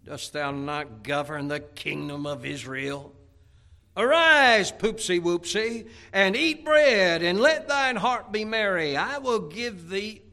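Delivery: high, loud, slow bossy wife; hands-on-hips Jezebel. Acted. Jezebel scolding Ahab to get up, bossy hammed-up wife. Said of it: "Jezebel's wife said unto him with her hands on her hips".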